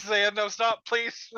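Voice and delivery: high, pleading plea to stop; high pleading mock voice. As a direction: beg them to stop in a high voice. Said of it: "Ultramar says".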